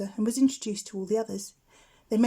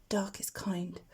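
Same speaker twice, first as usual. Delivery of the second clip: muttered; 7 dB quieter, slower than usual. A narrator's reading. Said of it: "Plop muttered to himself".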